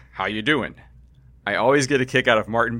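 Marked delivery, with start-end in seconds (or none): 0.1-0.8 lightly imitated New Jersey greeting; touch of exaggerated Jersey-esque; mild Jersey accent. Host quotes the driver's off-mic greeting, mild Jersey accent. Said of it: "with an exaggerated Jersey-esque".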